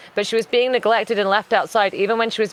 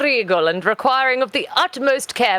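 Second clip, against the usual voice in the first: higher, formal posh British; posh British accent; 5 semitones higher than usual. Acted. Agreeing the cat is regal, posh British accent.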